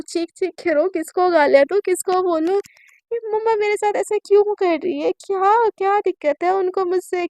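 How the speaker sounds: distraught why-me lament; anguished outburst. Acted. Heroine's anguished outburst after hotel.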